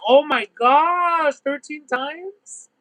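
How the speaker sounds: can't believe the number, drag each word; stunned disbelief. Real, not acted. Reacting to thirteen broken ankles.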